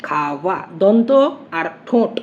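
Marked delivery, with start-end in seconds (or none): 0.0-0.6 low, soft "খাওয়া" as kha-va; labiodental glide. Shown as a demonstration. Teacher demonstrating teeth and lip, soft "খাওয়া". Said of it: "এইভাবে উচ্চারণটা করি".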